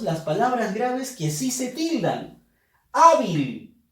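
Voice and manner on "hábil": "Hábil" con la primera sílaba fuerte; acento en penúltima sílaba. Shown as a demonstration. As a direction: golpea la "Há" de "Hábil". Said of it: "sino la penúltima". ("Hábil" cargando la voz al inicio)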